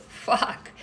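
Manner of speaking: a breathy whispered curse under her breath. Real, not acted. Streamer worried about suspension whispers her curse to viewers. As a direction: hiss it softly so the platform won't hear. Fears suspension, mutters swear.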